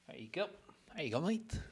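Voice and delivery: high, playful mock-British voice; lightly put-on cheeky voice; silly put-on voice. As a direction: ham it up with a goofy high voice. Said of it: "Why are you talking like that".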